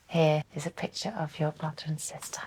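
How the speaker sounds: soft hushed reveal; whispering. Real, not acted. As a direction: whisper it gently. Showing the photo gently.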